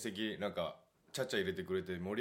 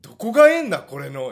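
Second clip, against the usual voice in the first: very high, loud grumpy grandpa; old man voice; 8 semitones higher, 18 dB louder than usual. Retold or imitated. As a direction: bark it like a cranky old man. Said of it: "言い出して".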